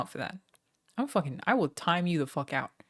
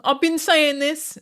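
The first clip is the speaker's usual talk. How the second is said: mock angry yell; 10 semitones higher, 9 dB louder, much slower than usual. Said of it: "Am I doing it, you guys?".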